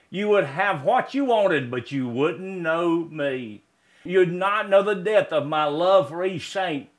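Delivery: measured, heartfelt poem reading; poem recitation. Acted. Preacher reciting a poem to his congregation, heartfelt. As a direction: let each line land like a prayer.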